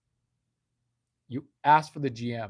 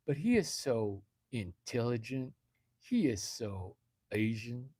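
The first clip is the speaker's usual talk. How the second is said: fake Southern accent. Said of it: "every Yankee has got a Southern fucking accent".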